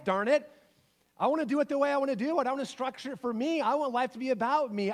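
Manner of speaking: building self-centred complaint, pitch climbing midway; petulant protest. Acted. Inner voice refuses to give life up for Jesus, mock petulant protest. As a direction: protest with mounting, mock-stubborn insistence.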